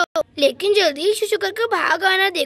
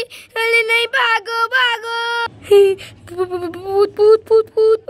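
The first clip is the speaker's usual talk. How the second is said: panicked cry; 2 semitones higher, 5 dB louder, much slower than usual. Acted. Fleeing the ghost in panic.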